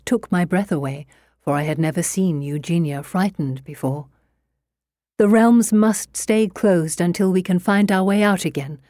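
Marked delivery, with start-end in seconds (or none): 5.2-8.8 urgent scream. Acted. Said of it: "she screamed".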